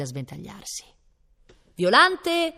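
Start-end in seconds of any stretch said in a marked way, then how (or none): 1.7-2.5 high, loud burst of calling; sharp female voice. A narrator's reading. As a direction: break in as a piercing-voiced lady. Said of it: "proruppe in quel momento un'acuta voce femminile".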